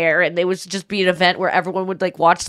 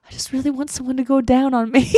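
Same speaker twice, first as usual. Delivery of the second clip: laughing balloon; 4 semitones higher than usual. Retold or imitated. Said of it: "He goes".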